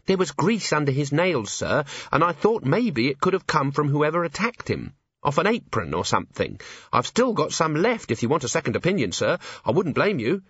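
high-pitched, eager report to a superior; earnest junior officer. Acted.

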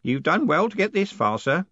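put-on high-pitched, approving old postman; sanctimonious high old-man voice; pious. A narrator's reading. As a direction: praise a superior in a high, pious voice. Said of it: "said Groat piously".

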